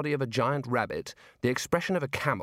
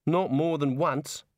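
put-on Australian girl voice; 3 semitones higher, slower than usual. Neelet's lines in the story.

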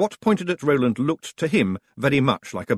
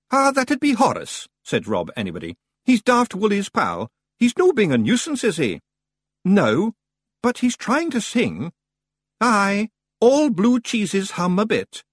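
Rob Anybody; 11 semitones higher, 4 dB louder than usual. Acted. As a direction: praise the boy in a small Scots voice. Rob answers Roland.

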